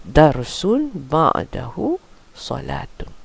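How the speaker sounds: slow, careful Arabic reading; slow model reading. Shown as a demonstration. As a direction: read it out slowly for the student. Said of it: "so now try this one".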